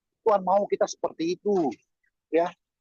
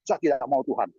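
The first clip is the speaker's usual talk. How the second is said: mock demanding prayer. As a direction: imitate a pushy believer bossing God, rising at the end. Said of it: "Jangan marah-marah". (meniru doa menuntut dan memaksa)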